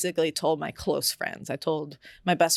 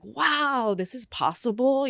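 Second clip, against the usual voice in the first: a touch of retold wonder, pitched up; amazed joy; 6 semitones higher, slower than usual. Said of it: "excitement and pr-, and pride".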